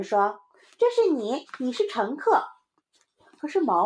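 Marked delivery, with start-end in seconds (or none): 0.8-2.4 put-on high, loud kid assigning roles; bossy little child. Child assigns friend the passenger. (小孩神气地高声分派)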